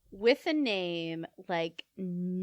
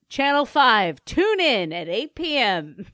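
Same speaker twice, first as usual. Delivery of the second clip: louder promo announcer voice; TV news promo; 2 semitones higher, 6 dB louder than usual. Pretend. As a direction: tease the evening news like an anchor. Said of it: "teasing a TV news promo".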